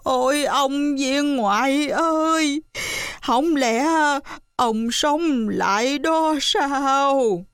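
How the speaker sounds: put-on high, slow old woman's plea; old widow calling to coffin. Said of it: "mạnh dạn vỗ tay vào quan tài nói".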